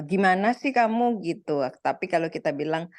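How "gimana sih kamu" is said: a touch of a reproachful scold, pitched up; mock scolding. Mildly scolding someone who made a mistake, reproachful. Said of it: "kata-kata yang sama".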